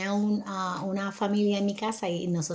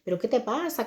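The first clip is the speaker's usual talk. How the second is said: imitating a Mexican accent, pitched up; lightly imitated Mexican accent, higher; 4 semitones higher, 3 dB louder than usual. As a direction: challenge him in a put-on Mexican accent. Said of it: "recuerden que John tiene acento mexicano".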